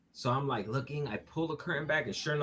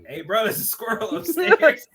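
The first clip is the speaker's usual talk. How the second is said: excited; 9 semitones higher, 12 dB louder than usual. Retold or imitated. Retold alarm to the cop.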